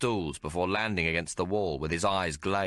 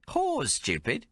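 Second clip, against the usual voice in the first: put-on higher, brassy Cockney working girl; a streetwise barmaid teasing the hero; Maggie's voice; 11 semitones higher, slower than usual. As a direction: play her worldly and mocking. Maggie scoffs.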